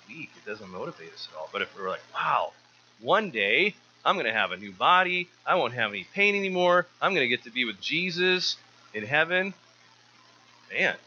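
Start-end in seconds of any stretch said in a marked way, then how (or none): 2.1-9.5 higher, bright-eyed rush of hope about heaven; excited wonder. Pretend. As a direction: gasp out a believer's delighted dream of heaven. Imagined joyful hope of heaven.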